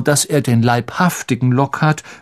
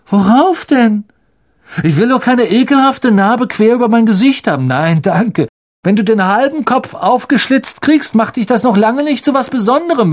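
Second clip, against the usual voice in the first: sneering bully; 10 semitones higher, 5 dB louder than usual. Acted. Malfoy mocks Harry's scar, high and scornful.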